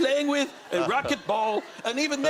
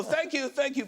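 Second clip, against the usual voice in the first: mock bowing thanks; 6 semitones higher than usual. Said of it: "I did this whole".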